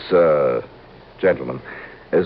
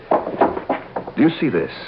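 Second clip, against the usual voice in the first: slow, breathless threatening whisper; menacing whisper; 2 semitones higher, much slower than usual. Acted. Killer revealing his gun to the detective, slow menacing whisper. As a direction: hiss it slowly while showing the gun.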